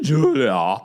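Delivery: exaggerated Russian-style accent; Russian-ish accent. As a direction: punch the name out in a put-on Russian accent. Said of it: "that accent I did for Julia".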